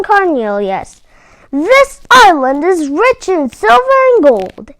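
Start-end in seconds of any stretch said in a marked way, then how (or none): 1.5-4.7 louder, higher hearty voice; lightly voiced bold miner; boisterous prospector. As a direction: boast like a gold-rush prospector. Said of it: "he said".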